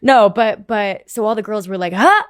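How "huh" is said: high, loud, rising "huh"; mock baffled reaction, pitched right up; puzzled surprise. Imitating the girls reacting to her answer, baffled.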